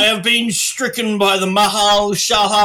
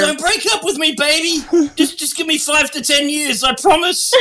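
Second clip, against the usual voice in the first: mock jailed boyfriend pleading; 6 semitones higher than usual. Mock boyfriend begging from jail.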